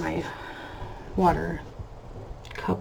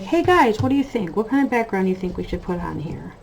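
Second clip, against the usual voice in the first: vlog greeting. Shown as a demonstration. Vlogger demonstrating her usual chatty hello to viewers. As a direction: open up to your audience. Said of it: "I'd be like".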